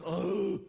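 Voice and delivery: loud, short "oh" of effort; mock exertion grunt; imitated lifting grunt. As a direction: mimic a trainer heaving up weights. Trainer hoists weights with one hand.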